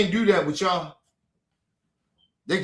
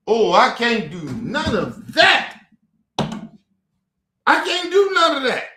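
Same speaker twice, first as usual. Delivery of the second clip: mock shout; 3 dB louder than usual. Mocking sister's refusal.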